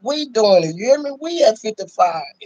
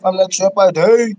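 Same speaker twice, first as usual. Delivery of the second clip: shout-out demo; 4 dB louder, slower than usual. Shown as a demonstration. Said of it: "Put everybody on blast. Like".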